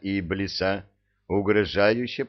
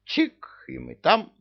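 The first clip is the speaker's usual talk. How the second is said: резко вверх, восторженный писк на «Чик»; выпали озарение, как ребёнок; внезапная идея; 7 semitones higher, slower than usual. Acted. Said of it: "осенило бессмертного злодея". (Кощей в восторге от своей идеи)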